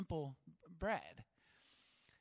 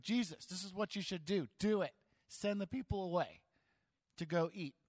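mock bossy order, a touch louder on "Do it"; commanding; 3 semitones higher, 3 dB louder than usual. Disciples half-heartedly ordering Jesus to send people away. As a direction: tell Jesus what to do. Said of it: "more of a command than a question".

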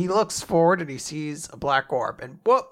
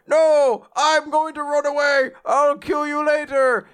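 much higher and louder, a cartoon coward; panicky fleeing villain; 11 semitones higher, 7 dB louder than usual. Lucifero fleeing from Asta, high cartoon panic. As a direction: squeal it while running away. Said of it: "And he's like".

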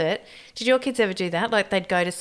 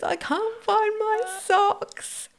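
put-on kid's voice; much slower than usual. Kid voiced in retold story.

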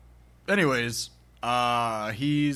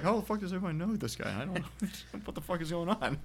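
laughing exasperation; 6 semitones higher, 8 dB quieter than usual. Retold or imitated. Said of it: "he's like".

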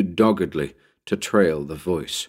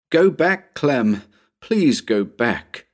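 crying plea; 6 semitones higher, slower than usual. Acted. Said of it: "Anne was crying now".

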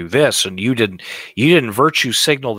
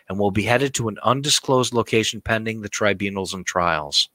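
narrator voice. Shown as a demonstration. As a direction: read it like a documentary narrator. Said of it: "let me put on my best narrator voice here".

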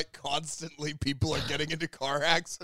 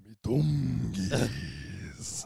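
put-on Spanish accent; 4 semitones lower, much slower than usual. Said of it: "the Spanish actor is like".

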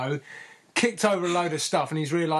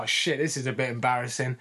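put-on drunk guy. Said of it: "sounds a little bit like a pissed guy".

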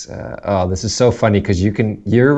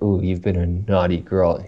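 sultry North American delivery, kept quiet; North American accent; 4 dB quieter than usual. Shown as a demonstration. Host showing how it sounds sexual in a North American accent. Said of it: "in a North American accent".

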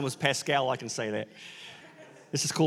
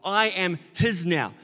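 earnest devotion. Retold or imitated. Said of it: "he was meaning".

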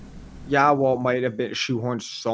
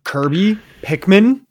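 Pikmin blurted out high and loud; an eager, much higher, louder cry; excited outburst; 8 semitones higher, 6 dB louder, slower than usual. Real, not acted. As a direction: burst out with it, thrilled. Excited naming of wished-for movies.

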